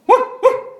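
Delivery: high, loud, breathy mock woof; dog bark imitation. Pastor imitating the puppy's bark for the congregation, high mock woof. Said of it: "이렇게 짖어요".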